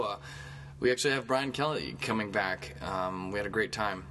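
upbeat mock show opening; hammed-up host intro. Shown as a demonstration. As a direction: pretend the show just started. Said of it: "I'll give you an example".

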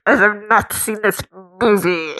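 muffled, mock-apologetic villain voice; put-on muzzled voice, lightly hammed; muzzled impression. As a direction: apologise as if through a mask. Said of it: "It's not muzzled enough".

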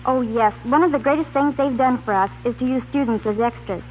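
ordinary talk, nothing marked

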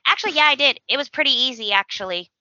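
sassy kid imitation, starting high and dropping off; Douglas. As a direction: lightly mimic a cocky little boy answering back. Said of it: "Douglas gets a little, like, mm, mm, little sass".

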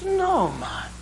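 high mock Irish brogue that drifts Jamaican; a high, put-on Irish accent bordering on Jamaican. Irishman in a pub doubting the other, mock Irish brogue. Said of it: "my Irish brogue sounds a lot like Jamaican".

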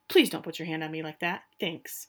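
cool, understated put-down, lightly acted; boss bitch. She rebuffs the governor grabbing her, boss-bitch cool. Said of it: "in the best boss bitch way".

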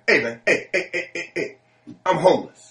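singsong tipsy plea; imitating the drunk guy. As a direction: drunk man in a suit announcing he is homeless, high voice. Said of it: "he's like".

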